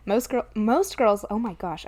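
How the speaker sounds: tripping over words; stumbling, repeating words; stuttering. Real, not acted. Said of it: "I am just stuttering like a monster".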